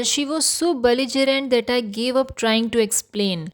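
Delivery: very slow, careful teacher reading; slow example sentence. Shown as a demonstration. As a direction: read it out slowly for learners.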